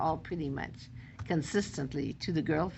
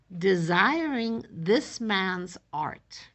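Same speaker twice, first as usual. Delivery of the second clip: very slow, louder recital; poem reading; 3 dB louder, much slower than usual. Shown as a demonstration. Teacher reading the sonnet line about art, very slow. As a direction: stretch the line out slowly.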